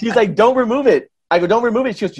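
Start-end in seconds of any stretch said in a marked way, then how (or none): 0.4-1.1 high, loud incredulous echo; mock disbelief. Card reader questioning client's refusal, mock disbelief. 1.5-2.0 high-pitched retold insistence; playful insistence. Client answering card reader, playful insistence.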